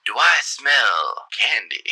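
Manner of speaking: slow, sultry mayor voice. Acted. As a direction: purr it out, slow and seductive. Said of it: "you hear a sultry voice".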